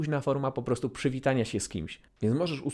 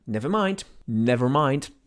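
dismissive brush-off; 4 dB louder, slower than usual. Shown as a demonstration. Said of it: "to było po prostu takie".

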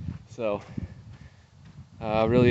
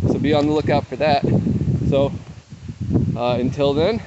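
upbeat sign-off; 4 semitones higher, 6 dB louder than usual. Real, not acted. Cheerful sign-off to viewers.

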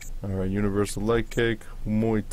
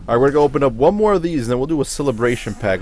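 excited; 5 semitones higher, 6 dB louder, faster than usual. Real, not acted. Excited pack opening announcement.

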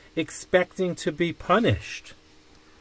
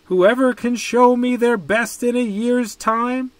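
put-on higher, louder voice of the old emperor; the emperor speaks; 8 semitones higher, 6 dB louder than usual. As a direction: announce it like an emperor to the crowd. Emperor's proclamation to children.

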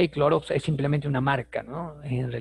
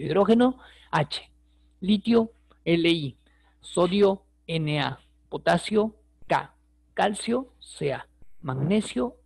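lively teacher drill calling out each element; quiz call-and-answer; 3 semitones higher, slower than usual. Shown as a demonstration. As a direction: call each element, pause, give its symbol. Quiz review, calls names for class. (repaso en voz alta como maestra que pregunta)

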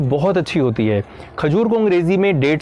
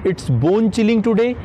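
very slow, clear English phrase; slow model sentence; 2 semitones higher, much slower than usual. Shown as a demonstration. Teacher modelling a phrase for viewers, very slow. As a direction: say it slowly so they can repeat. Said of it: "तो इसे अंग्रेज़ी में कहेंगे".

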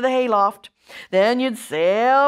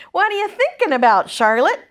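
put-on high, young piglet voice; eager little pig asking; Wilbur voice; 7 semitones higher, 4 dB louder than usual. A narrator's reading. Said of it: "he asked".

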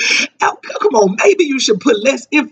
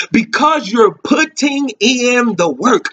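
slow because you're putting in the work, said for the church to join; call-and-response line; slower than usual. Shown as a demonstration. Preacher inviting the church to say the refrain with him, slow. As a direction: lead the congregation through the refrain slowly. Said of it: "Come on, say it with me".

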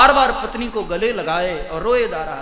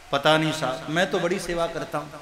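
meek helpless reply; 4 semitones lower, 4 dB quieter than usual. Acted. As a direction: lower and softer, humbly defeated. Meek Brahmin answers taunts. (आहत ब्राह्मण का धीमा, दबा हुआ, बेबस जवाब)

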